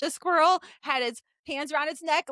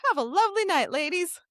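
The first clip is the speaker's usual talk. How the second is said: polite cowboy; 4 semitones higher than usual. Retold or imitated. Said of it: "As in, like".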